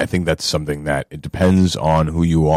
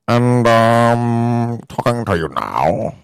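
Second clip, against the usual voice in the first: eighties movie guy voice; 8 semitones higher, much slower than usual. Retold or imitated. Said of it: "cut to this guy".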